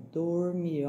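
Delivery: "dormir" slow, starting on a voiced D; correct soft D. Shown as a demonstration. Teacher correcting T to D, "dormir" slowly with voiced D. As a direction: stretch "dor" in "dormir", soft D. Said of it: "não é dormir".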